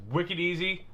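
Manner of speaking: a touch of Boston accent on "wicked". Real, not acted. Host explaining the easy job to viewers, Boston accent. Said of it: "that is my Boston accent coming out".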